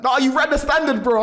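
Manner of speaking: high, loud excited yell; excited shout. Retold or imitated. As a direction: shout the good news at him. Friend rushing him, excited news.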